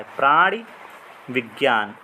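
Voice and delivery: प्राणी rising then विज्ञान falling low, with a pause; word split demo. Shown as a demonstration. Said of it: "इस तरीके से इनको याद रखिएगा".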